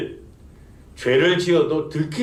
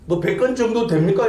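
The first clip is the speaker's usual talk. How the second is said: imitated scoffer, pitched higher with querulous sarcasm; mocking, argumentative sneer; 5 semitones higher than usual. Scoffer taunting evangelists about how heavy sin is, sarcastic and argumentative. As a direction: challenge dismissively, like a retold sceptic picking a fight. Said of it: "빈정대며 하는 말이".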